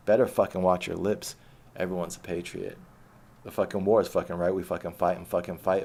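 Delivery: rhythmic, punchy spoken-word delivery; poem recitation. Acted. Poet performing his spoken-word piece for his viewers, rhythmic and punchy. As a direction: ride the cadence and hit every rhyme.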